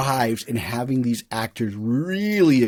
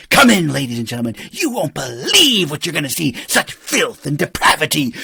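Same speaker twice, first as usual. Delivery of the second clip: barker pitch; 3 semitones higher, 3 dB louder than usual. Retold or imitated. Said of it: "he's the barker".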